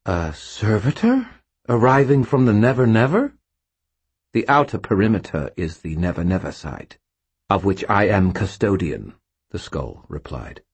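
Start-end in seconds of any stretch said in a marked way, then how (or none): 0.0-3.3 imperious ghost. Acted. Ghost queries sharply. 4.3-9.2 contemptuous skull voice. Acted. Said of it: "a vague contempt in its voice".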